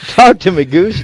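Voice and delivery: loud, high mock-dramatic plea; hammed-up movie quote. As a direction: call out to your wingman, overdramatically. Acting out Top Gun line.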